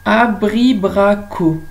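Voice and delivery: slow, loud, each syllable clear; slow careful word. Shown as a demonstration. Teacher to pupils, slow clear syllables. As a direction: say it slowly for the class to hear the extra syllable. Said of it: "Je redis".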